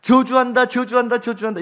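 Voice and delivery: high call repeating and fading; mountain echo. Acted. Mountain returns the shouted curse, fading echo. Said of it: "이 소리가 들려요".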